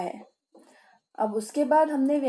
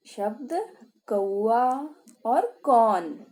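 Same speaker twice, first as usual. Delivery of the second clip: slow sounded-out words; much slower than usual. Shown as a demonstration. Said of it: "क्या उच्चारण करेंगे हम इसका?".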